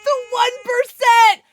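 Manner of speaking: loud, slow, high proclamation; excited announcement. Real, not acted. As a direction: announce it like a rare prize. Rare follow alert goes off.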